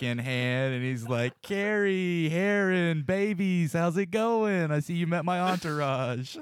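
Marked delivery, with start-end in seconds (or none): 1.4-6.4 higher-pitched schmoozer greeting; breezy, full-of-himself party hello; casual, self-satisfied. Acted. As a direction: greet them like a star feeling himself. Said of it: "super fucking casual, just, like, feeling himself".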